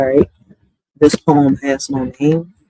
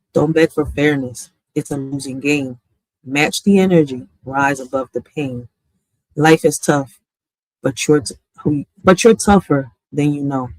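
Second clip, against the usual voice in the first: poem recitation. Acted. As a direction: read each line of "In a world where fairness fades" as a measured poem, with pauses between lines.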